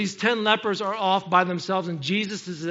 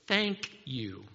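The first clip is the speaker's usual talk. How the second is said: unhurried thanks; 5 semitones lower, 4 dB quieter than usual. Shown as a demonstration. Models taking time to say it.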